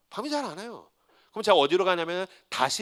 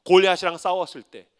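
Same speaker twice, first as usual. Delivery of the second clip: usual speaking voice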